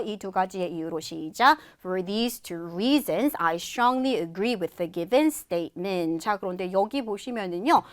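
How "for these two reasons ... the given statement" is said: slow, measured closing sentence in English; model reading. Shown as a demonstration. Teacher models the closing sentence, slow measured reading. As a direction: read it evenly and slowly. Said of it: "마무리 문장 해보도록 할게요".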